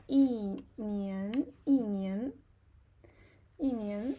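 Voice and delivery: 一 falling before a rising 年. Shown as a demonstration. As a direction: drop 一, then let 年 rise. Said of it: "it's a falling tone".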